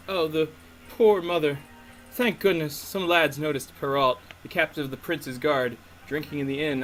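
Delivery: chatty townswoman in muddled Southern-British; hammed-up Southern-or-Cockney local; uncertain Southern-Cockney accent. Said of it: "I don't know if she's Southern or British".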